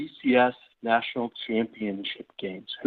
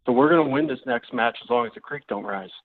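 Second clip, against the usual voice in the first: Southern grandfather; faster than usual. Acted. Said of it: "Why are you suddenly a Southern grandfather?".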